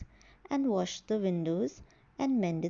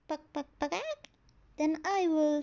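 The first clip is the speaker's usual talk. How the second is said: clucking hen; 5 semitones higher than usual. Acted.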